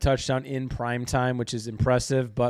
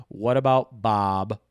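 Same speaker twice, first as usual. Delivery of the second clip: movie quote; 3 semitones lower, 4 dB louder, slower than usual. Acted. Movie quote punchline on bet.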